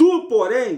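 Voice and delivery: high, slow preaching shout, "vai" stretched. Quoting the Messiah's words on prayer to the audience, shouting. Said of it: "Desculpa gritar, pessoal".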